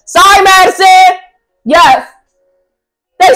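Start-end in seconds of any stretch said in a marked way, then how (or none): 0.1-1.2 real apology. Real, not acted. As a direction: apologise straight to her daughter, brightly.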